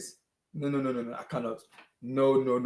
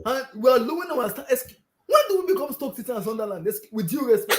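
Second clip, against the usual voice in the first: laughing despair; 7 semitones higher than usual. Real, not acted. Laughing crying rant.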